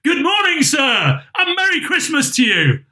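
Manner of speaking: high, cheery greeting; jolly high-voiced well-wisher; good-humoured fellows. A narrator's reading. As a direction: hail a passer-by good-humouredly, pitched right up. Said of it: "three or four good-humoured fellows said".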